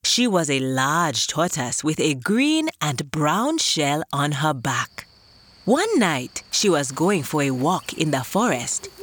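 gentle storybook narration; calm storytelling for kids; reading to children. A narrator's reading.

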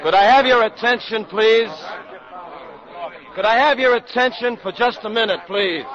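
projecting to a hall full of sailors; calling for attention. Acted. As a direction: call out over the crowd politely. Doctor addresses crowd in hall.

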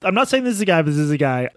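playful imitation of someone hedging; mock hedging. Mocking the article's hedging stance.

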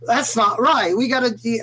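lightly voiced rock singer; rock singer impression. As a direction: slip into a hint of a rock star's voice. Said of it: "I don't know why I keep doing Bob Geldof's voice".

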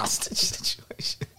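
whispered, slowed, laughing under breath. Real, not acted. Repeating the joke, laughing.

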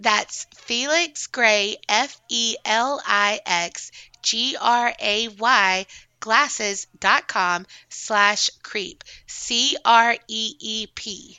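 slow, deliberate spelling of the web address; ad read. Acted. Host spells the sponsor address to listeners, slow and deliberate.

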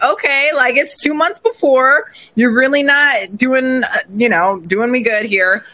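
a mildly miffed retort, drawn out; salty retort. Retold or imitated. Bride retelling her miffed reply, lightly salty. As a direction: let the annoyance leak through. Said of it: "I was salty".

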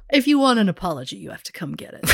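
a hammed-up sultry tease aimed at Ben; mock seductive dare. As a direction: dare him to come and get it, sultry. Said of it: "What the fuck was that?".

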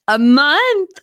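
overwhelmed happy crying; teary joy. Real, not acted. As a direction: let the tears break through the word. Repeating the wedding news.

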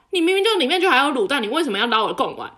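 hammed-up petty boyfriend complaint; mock childish rant. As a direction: rattle it off like a sulking kid, laughing by the end. Voicing Kevin's petty tantrum.

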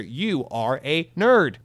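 slow teasing jab; mock insult. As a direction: drag it out in mock scorn. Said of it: "no, I'm just kidding".

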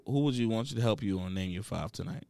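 devil voice. Pretend. Low put-on voice, others react.

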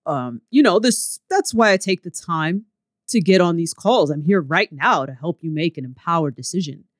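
a hint of an audiobook narrator's man voice. Bro marketing sales script read to a prospect, lightly voiced man. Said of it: "I'm gonna use my man voice again".

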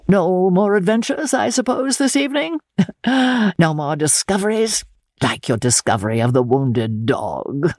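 high, arch teasing with a laugh; a chuckling, insinuating count; sly teasing. Acted. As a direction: needle her playfully.

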